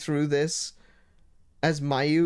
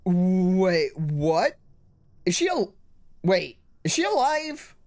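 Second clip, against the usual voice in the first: real shock; 3 semitones higher, 3 dB louder, slower than usual. Real, not acted. A player sees the character alive and reacts in shock. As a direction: pitch jumping up in disbelief.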